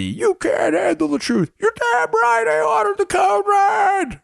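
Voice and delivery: high, rough, raspy dramatic delivery, pitched way up. Quoting the famous courtroom line from A Few Good Men. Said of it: "Few Good Men moment before the".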